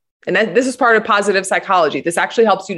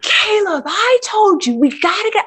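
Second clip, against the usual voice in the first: shrill-sounding imitation of losing it, pitched way up; retold scream; 11 semitones higher than usual. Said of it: "So I scream".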